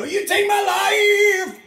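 high falsetto line, slow. Shown as a demonstration. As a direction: float it up in falsetto. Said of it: "a bit more falsetto".

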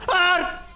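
sudden very high scream; real scream of fright; startled scream. Real, not acted. Player jump-scared by the game, startled scream. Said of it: "Ho urlato talmente forte".

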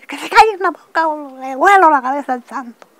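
high, loud imitated order; retold threat. Armed man to screaming girl, imitated shouted threat.

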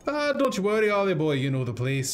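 lightly voiced sidekick, comforting; reassuring sidekick voice. Sidekick reassuring Ollie about where to look. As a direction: settle the boy down, knowing.

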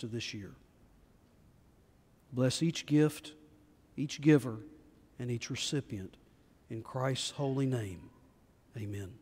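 measured, reverent prayer; unhurried prayer, falling gently at phrase ends; public prayer. Real, not acted. Leads a congregational prayer.

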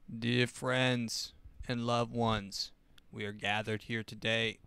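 slow, drawn-out Clinton impression; a hint of Bill Clinton, slowed right down. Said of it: "I have to do it in the Bill Clinton voice".

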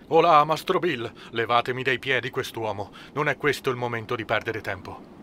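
captain snapping at the bosun to haul the man off; impatient command. A narrator's reading. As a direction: call the bosun over the wind, then cut it short. Captain orders man removed mid-storm.

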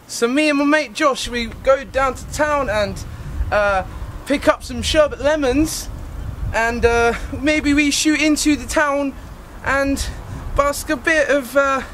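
Cockney accent with searching pauses; hesitant put-on Cockney storyteller; attempted Cockney accent. Shown as a demonstration. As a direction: improvise a rambling Cockney tale, stalling for words. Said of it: "do a better Cockney accent".

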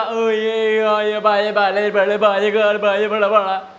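put-on light toddler babbling; toddler babble. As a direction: babble nonsense syllables like a baby. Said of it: "वो यही बोलेगा". (बच्चे की तरह तुतलाते हुए)

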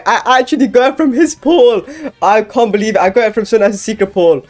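high, loud, thrilled disbelief; excited. Real, not acted. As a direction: blurt it out, overjoyed. Excited about getting the secret.

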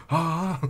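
loud, high dramatic "Ah!"; big hammed-up gasp of shock; mock shocked gasp. Reacting to the fairy king parentage reveal, mock shocked gasp.

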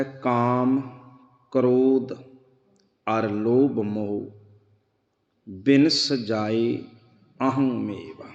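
slow, measured recitation of the verse; scripture recitation. Acted. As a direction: intone the shloka slowly. (ਹੌਲੀ ਹੌਲੀ ਸ਼ਲੋਕ ਦਾ ਪਾਠ)

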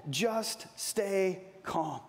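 very slow and soft; calm, soothing. Retold or imitated. Moses calming the panicking people, very slow and soft. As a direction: settle them down gently. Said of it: "he told the people".

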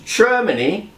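mock German accent, lightly done. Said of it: "an opportunity for my German accent".

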